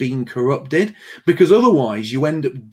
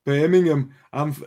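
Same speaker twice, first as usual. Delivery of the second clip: brief, half-hearted Brummie attempt; failed Birmingham accent. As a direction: try a Birmingham accent and give up. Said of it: "I can't do accents".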